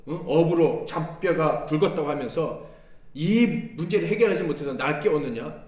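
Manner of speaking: imagine the master chiding fishermen; hypothetical scolding. Retold or imitated. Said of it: "이 정도로 책망하셨으면".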